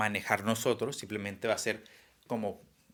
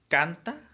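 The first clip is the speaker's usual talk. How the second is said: "canta" lifted high and louder with a rising end; teacher points out "canta" in the poem, raised; quoting the word; 7 semitones higher, 4 dB louder than usual. Shown as a demonstration. Teacher reading a poem word to students, raised. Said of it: "donde dice".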